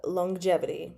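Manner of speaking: "longevity" said as "long-jevity", with an ng before the j; soft first G. Shown as a demonstration. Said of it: "it's a very soft first G".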